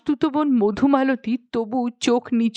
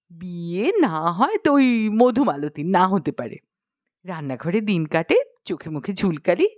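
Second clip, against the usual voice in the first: a spoilt princess taking offence; mild huffy princess; angry princess. Acted. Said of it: "রেগে বললেন".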